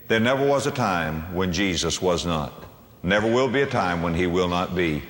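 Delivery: ordinary talk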